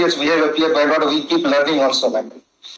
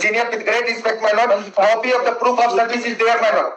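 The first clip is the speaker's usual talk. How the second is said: raised pitch, heated protest; 4 semitones higher than usual. Real, not acted. Counsel protesting to the judge, voice raised. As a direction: push back hard, pitch climbing. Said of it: "Please don't raise your voice".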